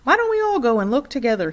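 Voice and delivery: a scared husband stalling; nervous father. A narrator's reading.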